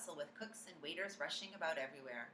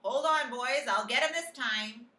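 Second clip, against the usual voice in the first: panicked cook; 5 semitones higher, 10 dB louder, slower than usual. A narrator's reading. Cook panicking over mouse.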